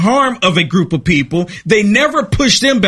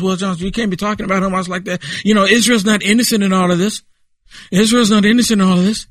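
critics' voice; faster than usual. Retold or imitated. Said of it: "some people don't like the fact".

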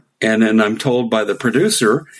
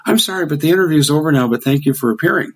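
higher, quick, polite brush-off; mock her hurried sign-off; young host ends the interview abruptly, lightly imitated; host closing; 5 semitones higher, much faster than usual. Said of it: "She goes".

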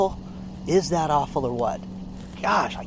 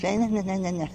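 higher, softer nonsense babble like Charlie Brown cartoons; mimicked wordless talking; 4 semitones higher, 5 dB quieter than usual. Showing how she talks, Charlie Brown style, imitated babble. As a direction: imitate her talk as wordless noise. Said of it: "that's how she talks".

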